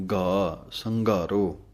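ਸੰਘਾਰੋ with a Hindi-style gh; ਸੰਘਾਰੋ with a voiced aspirated gh; Gurbani pronunciation. Shown as a demonstration. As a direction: say ਸੰਘਾਰੋ as san-ghaa-ro, no tone. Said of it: "ਘੱਗੇ ਦੇ ਨਾਲ ਆਵਾਜ਼ ਦੇਣੀ ਹੈ".

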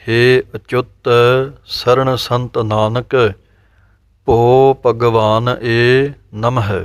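very slow verse with words kept apart; slow careful recitation. Shown as a demonstration. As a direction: recite deliberately, separating ਭਗਵਾਨ and ਏ. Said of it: "ਇਕੱਠਾ ਨਹੀਂ, ਵੱਖਰਾ ਵੱਖਰਾ".

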